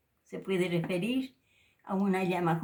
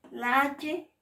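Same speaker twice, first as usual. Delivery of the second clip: "La H" raised and pushed out; teacher emphasis; 6 semitones higher than usual. Shown as a demonstration. Teacher introducing the aspirated H to the class. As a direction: lift "H" to call attention. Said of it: "se pronuncia con sonido expirado".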